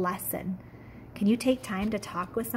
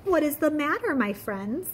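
asked kindly; 6 semitones higher than usual. Acted. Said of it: "she asked kindly".

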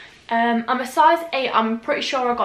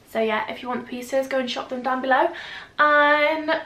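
out of breath; 2 semitones higher than usual. Real, not acted. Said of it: "I don't know why I'm out of breath".

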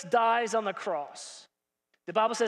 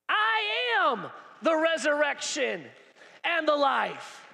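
slow solemn declaration; 3 semitones higher, slower than usual. Acted. Jesus declaring to Martha.

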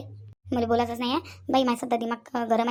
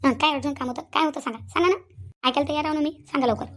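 impatient angry questioning; annoyed insistence; angry demand; 2 semitones higher than usual. Acted. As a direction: press him for answers. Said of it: "एवढी रागानं नको बोलू".

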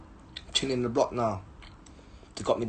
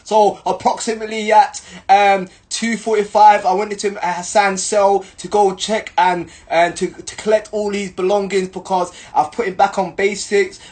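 mock official report; 2 semitones higher, 4 dB louder than usual. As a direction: parody an officer's statement. Reads out officer's formal report.

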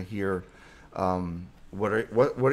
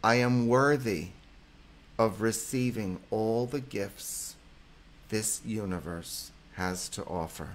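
affirmation for repeating. Shown as a demonstration. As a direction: pause so listeners can say it back. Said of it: "Repeat with me, guys".

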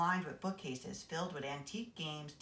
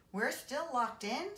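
high, slow squeal of dismay; 9 semitones higher, slower than usual. A narrator's reading. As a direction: squeal it like a whiny kid. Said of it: "squealed Haley Daly".

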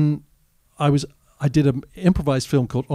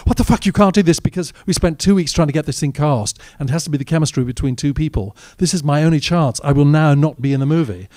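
higher-pitched acted outrage; retold exasperated protest; 3 semitones higher, 4 dB louder than usual. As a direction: replay a desperate, indignant plea. Retells his protest to fellow actor.

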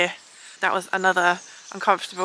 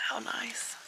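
sarcastic; 6 semitones higher, 11 dB quieter than usual. Real, not acted. Ponds on the tent, ironic.

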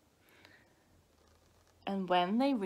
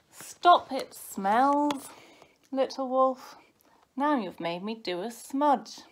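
loud, higher scolding; annoyed big brother; 4 semitones higher, 6 dB louder than usual. A narrator's reading. Painter scolds brother over a smudge, loud and annoyed. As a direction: tell off a pesky little brother.

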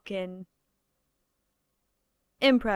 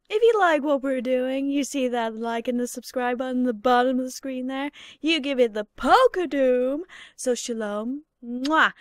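YouTuber outro. Retold or imitated. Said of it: "some YouTubers".

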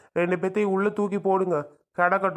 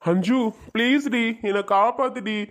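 pleading husband; 4 semitones higher than usual. Acted. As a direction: beg her to save him, desperate. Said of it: "கெஞ்சி கேட்டுக்கிறேன்டி". (மனைவியிடம் உயர்ந்த குரலில் கெஞ்சும் கணவன்)

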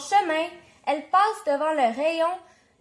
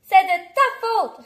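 put-on higher, louder child's protest; indignant blame; 4 semitones higher, 6 dB louder than usual. A narrator's reading. Catherine answers her dad, indignant protest. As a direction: throw the blame back at dad.

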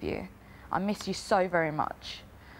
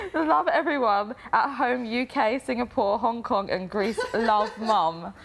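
higher voice bubbling with laughter; laughing sign-off; 4 semitones higher than usual. Real, not acted. Reading the sign-off to housemates, laughing. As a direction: read on through the laughs. Laughing while finishing the letter.

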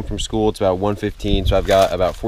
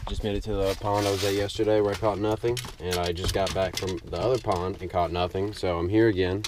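hushed; 7 dB quieter than usual. Real, not acted. Quiet near fish at pond.

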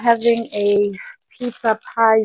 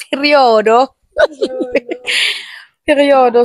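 excited; 3 semitones higher, 3 dB louder than usual. Real, not acted. Celebrating best friend's birthday.

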